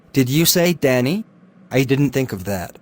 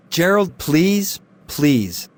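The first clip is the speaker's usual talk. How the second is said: desperate begging; much slower than usual. Acted. Charles begging Gerald to come.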